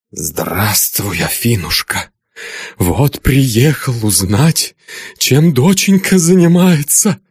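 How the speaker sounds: a hint of a menacing old father, slow to start then rising; sinister sweetness turning sharp; lightly voiced stern father; father's voice.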